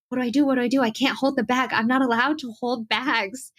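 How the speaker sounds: a touch of mock panic over the bag. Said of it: "panicking and being like".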